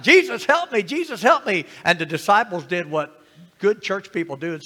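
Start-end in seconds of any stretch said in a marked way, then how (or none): 0.0-1.6 higher, louder call for rescue; retold cry of "help me"; imitated yell for help. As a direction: call out like a man begging for help. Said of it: "man yelling out".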